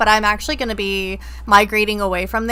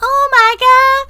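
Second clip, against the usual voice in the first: loud, high gasp of shock; 8 dB louder, much slower than usual. Real, not acted. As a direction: react in real disbelief. Shocked at the article.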